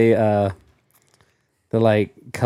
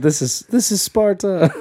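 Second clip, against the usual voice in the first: higher, laughing imitation of a battle cry; mock Sparta yell; 7 semitones higher than usual. Co-host shows how Bree wanted Sparta yelled, mock battle cry. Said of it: "Well, she said".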